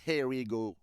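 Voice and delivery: a show-off English accent on the catchphrase, only lightly done; mock English accent. Shown as a demonstration. Announcing the transfer to his viewers, in a lightly hammed English accent. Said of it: "mon accent anglais est magnifique".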